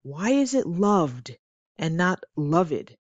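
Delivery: curious learner. Pretend. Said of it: "If you ask a native speaker".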